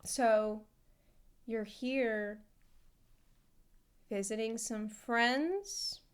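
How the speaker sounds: suspicious nurse. Retold or imitated. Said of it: "for the nurse to be like".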